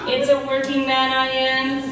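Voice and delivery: flat monotone robot voice. Acted. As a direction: speak like a droning robot. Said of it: "You're a giant robot death machine".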